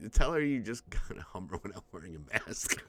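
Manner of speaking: whispered joke aside; hushed conspiratorial quip; whispering a joke to his co-host. Real, not acted. Joking aside under breath.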